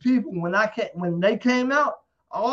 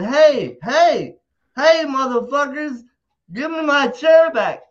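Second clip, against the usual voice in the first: louder, higher hollering at the crowd; retold yell; 4 semitones higher, 6 dB louder, slower than usual. Drunk fan in the crowd yelling for his chair back, loud. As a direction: bellow for your chair back.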